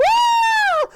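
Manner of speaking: piercingly high, loud scream; cartoon scream. SpongeBob reacts to the story's climax, cartoon scream. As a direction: scream in hammed-up terror. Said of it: "Sponge screams".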